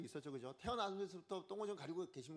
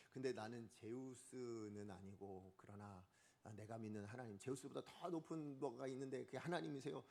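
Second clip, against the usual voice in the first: low, soft hypothetical testimony; quiet explaining aside; 5 semitones lower, 7 dB quieter than usual. Acted. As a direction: explain it discreetly, voice dropped. Imagined apostle gently correcting crowd.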